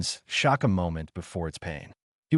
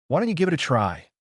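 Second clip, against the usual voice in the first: angry retort; 6 semitones higher, faster than usual. A narrator's reading. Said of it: "the demon shot back angrily".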